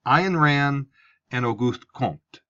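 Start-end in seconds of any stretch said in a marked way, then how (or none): 1.3-2.4 lightly French-accented name; a lousy French accent on Auguste Comte. Shown as a demonstration. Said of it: "Sorry for my lousy French accent".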